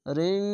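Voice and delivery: "রিং" with a long nasal hum; nasal ghunna. Shown as a demonstration. Teacher likening it to Bangla anusvara, nasal hum held. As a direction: hold the ng of "রিং" through the nose. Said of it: "Bangla অনিষ্কার মতো".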